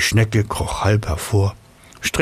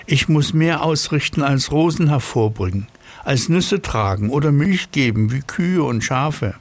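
high, self-important snail; a smug little snail, pitched up; 7 semitones higher than usual. Acted. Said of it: "sagte sie".

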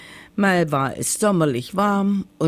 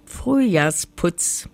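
proud; slower than usual. Acted. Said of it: "sagte das Hexlein stolz".

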